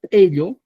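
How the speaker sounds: "ello" begun with a popped hard Q; Cusco pronunciation. Shown as a demonstration. Teacher showing the Cusco word, hard Q onset. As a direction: pop a hard Q before "ello". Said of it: "utilizamos en Cusco".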